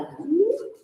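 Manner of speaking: a sudden high ooh; imitated ooh. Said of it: "I heard it go".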